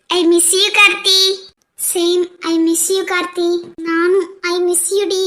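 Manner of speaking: slow, drawn-out and heartfelt; wistful farewell. Acted. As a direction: linger on each word as you say goodbye. Friends' emotional farewell to bride.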